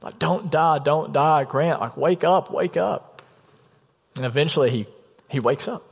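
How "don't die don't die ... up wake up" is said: higher, urgent replay of pleading; imitated tearful yell, held back; retold desperate pleading. Brother reviving his unresponsive sibling, retold desperate plea. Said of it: "I'm yelling at him. I'm crying".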